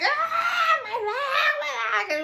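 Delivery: high, loud pained wail; mock sobbing scream about a hurt leg; imitated screaming. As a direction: mimic her crying out in pain. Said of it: "she was screaming".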